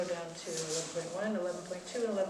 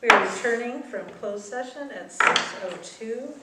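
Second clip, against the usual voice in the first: talking louder through a mask; through a face mask; 8 dB louder than usual. Real, not acted. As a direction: speak up through a cloth mask. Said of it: "I'll talk louder 'cause I have a mask on".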